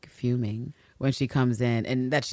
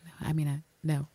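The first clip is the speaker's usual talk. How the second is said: hesitant, softly voiced refusal; imitated quiet reply; 3 semitones higher, 5 dB quieter than usual. Retelling Ann Walker's first reply, super quiet. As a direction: imitate someone quietly faltering. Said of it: "super quiet at first".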